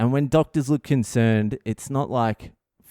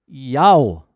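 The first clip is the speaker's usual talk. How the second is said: call out; 8 dB louder than usual. Real, not acted. Sudden call-out mid-story.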